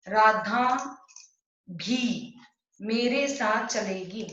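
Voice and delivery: Radha, pause, then भी, pause, then the rest; word by word. Shown as a demonstration. Teacher splitting the sentence apart to show the particle. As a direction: break it into separate words around भी. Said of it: "भी है ना".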